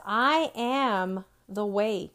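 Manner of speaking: slow, calm, matter-of-fact. Shown as a demonstration. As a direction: lay it down as plain fact, no doubt. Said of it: "that matter-of-factly attitude that says".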